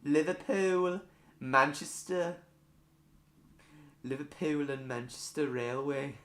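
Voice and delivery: put-on amateur stab at a Scouse accent; Liverpudlian accent attempt. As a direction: rehearse place names in a Liverpool accent. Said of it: "if that was Welsh or Liverpudlian".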